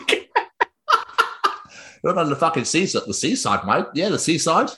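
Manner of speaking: unconvincing Australian with lifted endings; mock Australian accent. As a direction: rattle it off as a would-be Aussie. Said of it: "that's not doing the Aussie accent".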